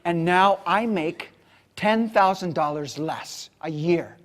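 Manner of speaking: loud, high, fast, building defiant rant; furious outburst. Retold or imitated. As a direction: shout your refusal to let go. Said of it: "He says".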